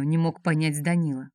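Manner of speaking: ordinary delivery, nothing marked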